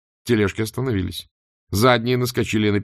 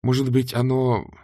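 higher, halting thinking aloud; thoughtful; 5 semitones higher than usual. A narrator's reading. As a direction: muse with pauses between phrases. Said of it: "задумчиво произнесла Людмила". (задумчиво, с паузами)

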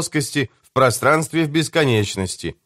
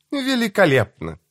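much higher-pitched character voice; high-pitched voice on the phone; 8 semitones higher than usual. A narrator's reading. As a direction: answer in a high, put-on voice. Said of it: "отозвался высокий голос".

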